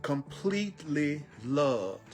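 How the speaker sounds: slow, tender reassurance; slow loving affirmation. Acted. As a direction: linger on each "loved" and let it sink in. Slow affirmation of being loved.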